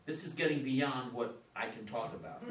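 awkward chuckle through the words; embarrassed laugh. Acted. Father laughing off talk of puberty, embarrassed.

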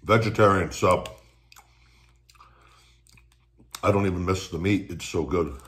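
speaking between bites of sandwich; talking while chewing. Real, not acted. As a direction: mouth partly full of food. Seen 4: holds sub, cheeks and lips move as if chewing while talking.

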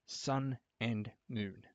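drawn-out reveal of Sun and Moon; slow dramatic reveal. Real, not acted. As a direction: savor each word of Sun and Moon. Big reveal of new games.

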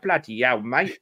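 hammed-up English slang delivery; terrible English accent. Reader mocking how the droog must talk, exaggerated English accent. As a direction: do a bad English bloke. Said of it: "a terrible English accent as well".

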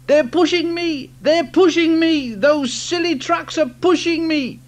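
high, loud and frantic; panicked cry. Acted. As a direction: cry out in panic, pushed along. James cries out being pushed.

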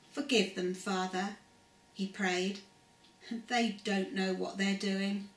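calm storybook reading voice; story narration. A narrator's reading. Narrator telling children the crucifixion story, calm storytelling. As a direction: read it gently to children, steady pace.

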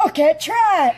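imitating his voice. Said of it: "perfect imitation of this guy's voice".

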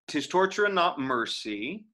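even, beat-by-beat verse; metronomic reading. Shown as a demonstration. Teacher demonstrating verse beat to students, metronomic. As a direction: tap out each stress like a metronome. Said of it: "in this sort of metronomical rendition".

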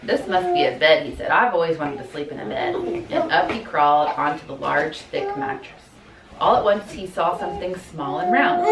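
soft, slightly low picture-book narration; quiet storybook read-aloud; reading to children. A narrator's reading. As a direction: read a bedtime-style story to little kids.

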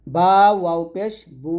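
final "বু" held as a long oo; drawn-out vowel. Shown as a demonstration. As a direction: stretch "বু" out for one alif. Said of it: "এক আলিফ মাদ হবে".

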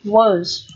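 "Words" as weak "wəz", short schwa, no R or D; weak form. Shown as a demonstration. Teacher repeating the light reading, short schwa in "Words". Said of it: "đọc là âm ơ ngắn".

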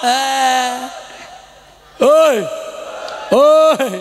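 sharp call to the listeners. Real, not acted. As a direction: bark hoi at the crowd. Preacher calls out to crowd.

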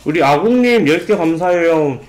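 chewing, hand over mouth; muffled through covering hand; mouth full behind hand. Real, not acted. Seen 2: Hand covers chewing mouth throughout words; food bitten earlier.

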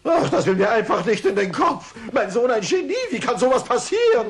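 laughing disbelief. Acted. Father stunned his son is genius.

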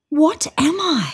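a lighter high, slow puzzled question; slow repeated wondering. A narrator's reading. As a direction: ask again, slowly and lost. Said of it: "it kept saying".

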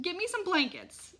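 high, loud, urgent plea; frantic mother begging. A narrator's reading. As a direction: plead loudly and urgently. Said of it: "Mom begged".

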